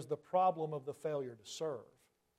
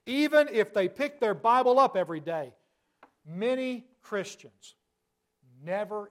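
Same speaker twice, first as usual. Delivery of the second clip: higher and much louder, slowing on "many Christians"; preacher pressing the congregation, loud and urgent; emphatic preaching; 3 semitones higher, 8 dB louder than usual. Real, not acted. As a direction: drive it home with force. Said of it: "preacher's emphatic peak".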